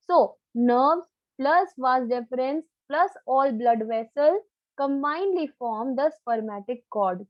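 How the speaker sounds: slow, item-by-item teaching delivery; deliberate definition. Real, not acted. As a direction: lay out each term slowly for the class. (धीरे-धीरे, परिभाषा समझाते हुए)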